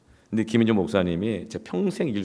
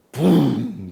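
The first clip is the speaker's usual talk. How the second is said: loud, raised whoosh of a swung stick; imitated swish; 5 semitones higher, 6 dB louder, much slower than usual. Mother swinging her bamboo stick, mimicked whoosh. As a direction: make the noise of a stick swinging.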